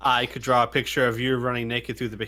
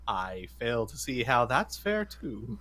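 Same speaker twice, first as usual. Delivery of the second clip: cheerful but dry; 3 semitones lower, 6 dB quieter than usual. Acted. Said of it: "cheerfully, though a bit dryly".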